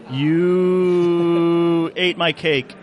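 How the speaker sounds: long-held "you", then the charge; drawn-out accusation. Pretend. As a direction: stretch the first word out for mock drama. Mock revenge speech.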